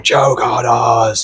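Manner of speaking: drawn-out imitation of screaming; slow, mild mock yell. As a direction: stretch it out like a half-hearted scream. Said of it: "the guy starts screaming".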